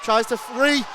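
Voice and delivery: rising loud play-by-play shout; excited call. Real, not acted. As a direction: build the call as the rush comes. Rush up the ice.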